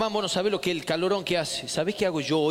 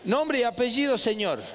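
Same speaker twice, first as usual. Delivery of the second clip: mock interrogator; 5 semitones higher than usual. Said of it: "lo voy a probar con usted".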